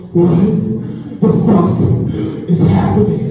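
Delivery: breathless, slowed gasp; panting, winded shout. Retold or imitated. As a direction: gasp it out like you ran the whole way. Dad bursts in out of breath.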